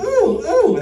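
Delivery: high prissy disgusted ooh; snooty ooh. Pretend. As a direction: squeal it like a snob. First class mocking passenger.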